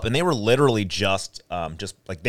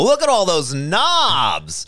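slow, high and loud wonder; amazed exclaim; 7 semitones higher, 4 dB louder, much slower than usual. Retold or imitated. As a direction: gasp it out in slow awe. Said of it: "they go".

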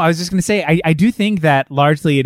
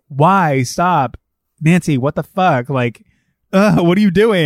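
appalled protest; 4 semitones higher, 4 dB louder than usual. Retold or imitated. Voicing friends confronting Nancy.

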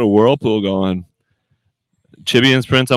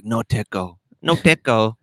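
put-on Asian accent; 4 dB quieter than usual. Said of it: "In her head, she's like".

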